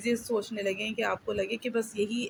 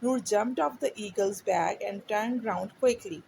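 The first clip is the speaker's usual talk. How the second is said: put-on slow, clear read-aloud for a child; story reading; much slower than usual. A narrator's reading. Teacher reading a storybook to a child, slow and clear. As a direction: read each word slowly so the child can follow.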